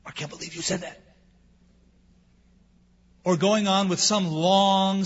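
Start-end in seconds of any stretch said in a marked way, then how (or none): 0.1-1.0 softer, scandalised mock reproach; mock shocked. Shown as a demonstration. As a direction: play the shocked listener. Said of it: "To not go".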